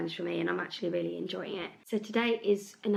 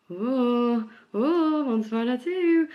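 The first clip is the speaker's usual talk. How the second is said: surprised; 5 semitones higher, 6 dB louder, slower than usual. Retold or imitated. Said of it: "and I was like".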